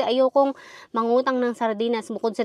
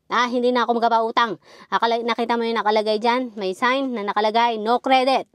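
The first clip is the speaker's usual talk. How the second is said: a touch of an annoyed shopkeeper; lightly imitating a grumpy refusal; mild retold scolding; 2 semitones higher, 4 dB louder than usual. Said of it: "si Mang Andoy magagalit".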